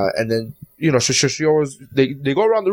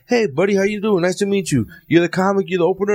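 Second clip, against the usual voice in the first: a hint of a suddenly friendly comic, raised pitch; mock-cheerful greeting, voice lifted; imitating friendly switch; 6 semitones higher than usual. Comic greeting the opener after yelling, sudden fake friendliness. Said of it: "he turned around two seconds later and he was like".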